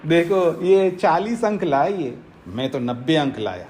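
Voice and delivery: belittling jibe sinking into a low boast; mock their marks, then drop low to gloat; taunting put-down. Shown as a demonstration. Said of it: "मेरे expressions देख रहे हैं".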